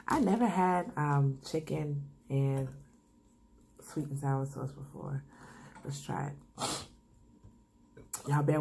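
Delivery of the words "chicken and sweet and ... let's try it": stuffy cold voice with sniffles; sniffling. Real, not acted. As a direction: talk through a cold, sniffling. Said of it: "excuse my sniffling and coughing".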